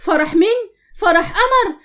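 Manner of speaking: scornful laugh through the words; mocking laugh. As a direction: laugh at the very idea of her wedding. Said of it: "ضحكت عمتي وقالت لها".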